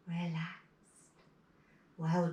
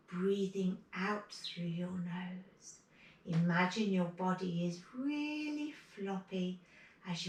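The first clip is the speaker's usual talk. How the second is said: guided meditation; 3 dB quieter than usual. Acted. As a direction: lull them toward calm.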